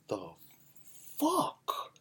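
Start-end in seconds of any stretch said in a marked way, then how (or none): 1.2-1.9 squeaky high disbelief; high shocked squeak. Real, not acted. Shocked reaction.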